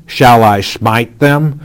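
eager repeat landing on them; excited repeat. Acted. King repeating his eager question to Elisha. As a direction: press the question again with relish. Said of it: "as he repeats the question twice".

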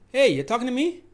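"Hey" hit hard, lifting again at "me"; loud high HEY opening the question; stress on HEY. Shown as a demonstration. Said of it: "different meanings, depends on where you put".

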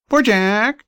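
high, plaintive bird voice repeated; magpie crying again. Acted. Magpie still pretending to be sleepy and pitiful. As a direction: keep whining like a pitiful talking bird. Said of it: "and crying".

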